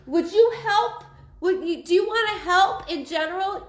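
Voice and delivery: high, loud, exasperated plea; mock exasperated wife. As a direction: whine it up high like a fed-up wife asking for help. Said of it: "And you're like".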